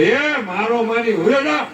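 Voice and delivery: mother's half-pleading get lost; mother shooing son. Retold or imitated. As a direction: shoo the boy off like his mother.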